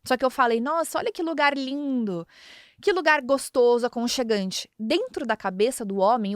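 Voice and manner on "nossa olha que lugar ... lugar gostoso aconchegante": hinting wife. Shown as a demonstration. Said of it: "o que que ele escutou".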